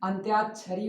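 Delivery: अंत्याक्षरी with half त and य clearly sounded; teacher models अंत्याक्षरी; correct pronunciation. Shown as a demonstration. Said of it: "ना कि अंताक्षरी".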